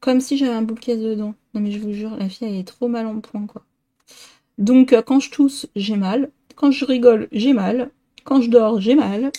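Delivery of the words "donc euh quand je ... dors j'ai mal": mock whiny complaint. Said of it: "je vais faire la fille qui se plaint".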